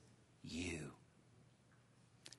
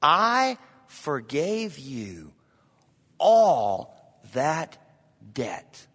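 grieved master; much slower than usual. Acted. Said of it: "said to him".

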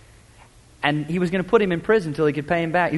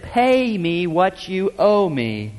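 mock menace; much slower than usual. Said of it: "throttled him around the throat".

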